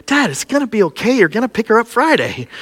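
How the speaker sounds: lightly voiced son, fast and reassuring; imitating reassuring son. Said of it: "My son's like".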